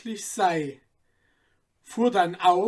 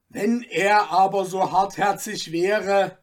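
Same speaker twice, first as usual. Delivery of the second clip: louder begging voice; 7 dB louder than usual. Acted. Cutler begging the merchant, imploring. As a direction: beg him once more. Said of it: "fügte der Mann hinzu".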